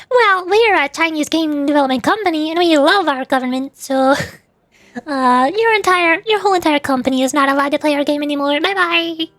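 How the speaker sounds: lightly voiced corporate brush-off, lilting into the goodbye; mock company spokesperson. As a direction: imitate a company curtly banning someone, with a singsong goodbye. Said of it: "So Muse Dash is like".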